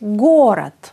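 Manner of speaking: γκόρατ with a crisp final "t". Shown as a demonstration. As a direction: hit the first syllable of γκόρατ, end on t, not d. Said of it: "Ακούγεται". (γκόρατ με καθαρό «τ» στο τέλος)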